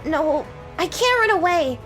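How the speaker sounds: high, loud desperate cry; desperate knight. Acted. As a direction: force herself not to flee. Knight steels herself.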